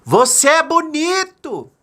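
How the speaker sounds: high, loud, slow call to the mountain; father calling to show the echo. Acted. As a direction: shout it out across the valley. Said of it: "quer ver?".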